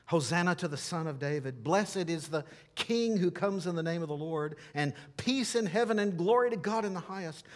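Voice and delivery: imitating a crowd's hosannas; crowd shouting praise. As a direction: proclaim it like a cheering crowd, short of a full shout. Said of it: "that was shouting".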